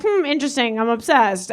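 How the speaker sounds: soft, low mock-calm thought; understated musing. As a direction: muse quietly to yourself, underplayed. Mock-calm thought on finding stain.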